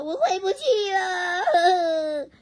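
慢吞吞带点哭腔; 轻轻地哭诉回不去; sad. A narrator's reading. 皮皮飘走时回答. (带哭腔慢慢说)

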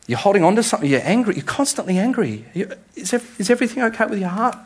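a loving voice gently asking what's wrong; tender Jesus voice. Acted. Jesus asking the congregation about their hearts, tender and searching.

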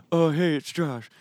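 awkward greeting. Pretend. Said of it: "Hey, Josh, what's it say?".

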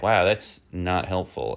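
slow, sarcastic put-down; dry sarcasm. Retold or imitated. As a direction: drag it out, thoroughly unimpressed. Sarcastic reply to phone fact.

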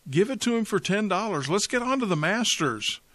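high, loud impatient bidder calling out; a bidder calls from the crowd, loud and impatient. Acted.

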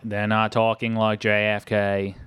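slow, lightly put-on Boston accent; mock Boston accent. Shown as a demonstration. Host correcting co-host on the film's accent, in mock Boston. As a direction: stretch it out in a hint of JFK's Boston. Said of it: "They're not talking the Boston accent".

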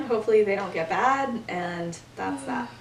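talking through real hiccups; hiccuping between words. Real, not acted. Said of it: "now I have the hiccups".

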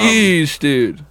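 high mocking "Jeez"; mock disgust. Friends joking about a mom story, squealing in mock disgust.

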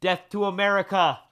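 high-pitched mock proclamation; hammed-up high chant; imitating outrageous friend. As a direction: declare it like a wacky provocateur. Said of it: "he'd be like".

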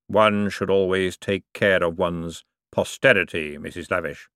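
slow, grave voice of Death. Acted. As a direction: let every word fall slowly and solemnly. Death replies slowly.

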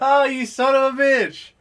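high, laughing outburst at a scare; surprised laughing shout. Real, not acted. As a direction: laugh and yell, caught off guard. Caught by a scare.

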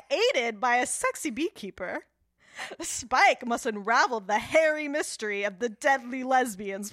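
dramatic trailer narration with laughs; movie trailer voice. Pretend. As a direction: announce it like a film trailer. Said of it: "make that trailer".

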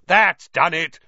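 loud, high, joyful shout; happy yell. A narrator's reading. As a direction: yell it out in triumph. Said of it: "Fred yelled happily".

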